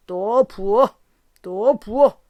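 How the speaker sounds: put-on a drunk shouting for another round. A narrator's reading. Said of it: "하고 외쳤다".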